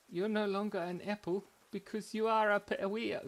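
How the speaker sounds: high, delighted character voice; grinning apple character. Pretend. Andrew revealing the news to his friend, grinning voice. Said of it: "he was smiling a lot".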